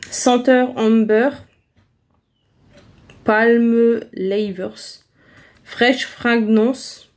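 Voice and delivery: slow, careful reading of English label words with a French accent; halting English reading. Real, not acted. Vlogger reading an English deodorant label to viewers, slow and halting. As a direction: sound out the English product text slowly, unsure of each word. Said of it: "mon anglais n'est pas terrible".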